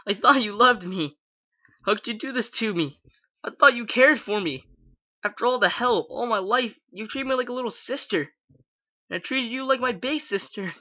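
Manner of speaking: high, tearful shouting at her big sister; crying and shouting. A narrator's reading. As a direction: shout through tears, pleading and betrayed. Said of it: "Her throat hurt from the crying and shouting".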